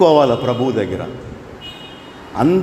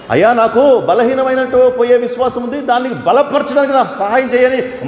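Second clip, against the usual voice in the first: humble plea; 9 semitones higher than usual. Shown as a demonstration. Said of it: "ఇదిగో ఇట్లా అడగాలి".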